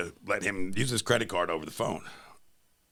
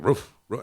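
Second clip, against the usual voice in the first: imitated barking; 4 semitones higher, 3 dB louder than usual. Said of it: "He was barking at the girls".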